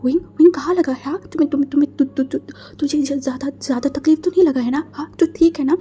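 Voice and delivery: stammering, breathless, anxious questions; frantic guardian checking the hurt boy; panicked worry. Acted. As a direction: trip over the words in fear.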